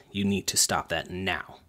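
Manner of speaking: low, soft, slow and stern. Shown as a demonstration. Coach up close to a disruptive kid, low slow stern warning. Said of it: "lowering my voice".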